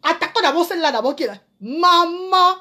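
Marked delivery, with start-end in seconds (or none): 1.6-2.5 high, drawn-out call; mock cry for mother. Crying out for mama under attack, mock wail. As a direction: call out long and high, theatrically.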